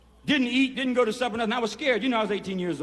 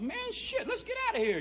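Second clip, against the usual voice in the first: eager urging; 5 dB quieter than usual. Retold or imitated. Urging buddy to steal truck.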